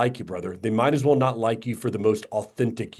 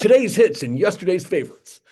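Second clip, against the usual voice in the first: high, loud laughing DJ voice; radio DJ voice; 6 semitones higher, 5 dB louder than usual. Retold or imitated. Host joining the DJ joke, laughing mock announcer. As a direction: ham up a cheesy station slogan. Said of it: "the radio D J".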